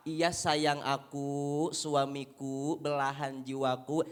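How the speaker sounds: low, slow honeyed reply; lovey-dovey newlywed cooing; sweet doting wife. Acted. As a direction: melt over every pet name. Wife's sweet reply, first year.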